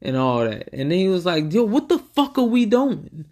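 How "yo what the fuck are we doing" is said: high, exasperated mock outburst; exasperated rapper. Imitating a rapper yelling at his band in disbelief. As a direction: imitate the boss blowing up at the band.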